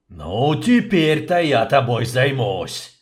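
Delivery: a slow, loud growling threat; barking. Acted. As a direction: snap it at the captive. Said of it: "рявкнул губитель".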